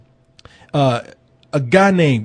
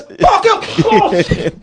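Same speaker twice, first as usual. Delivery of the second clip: put-on Cockney accent; 13 semitones higher, much slower than usual. Cockney impression continues.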